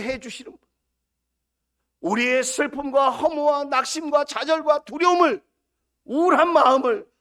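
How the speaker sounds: 목소리를 높여 힘차게 외치는 설교; fervent preaching. Acted. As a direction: call out the blessing with rising force. Opening blessing, preaching at full force. (힘차게 축복을 선포하는 설교)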